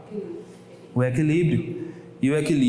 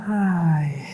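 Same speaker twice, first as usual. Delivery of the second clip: angry tone. Shown as a demonstration. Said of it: "Tu tá com raiva, tu vai falar como?".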